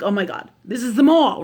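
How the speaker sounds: half-laughing alarm at the idea; mild mock freaking out. Retelling her panic about a mall space, mild mock freak-out. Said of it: "'cause I'm freaking out about it".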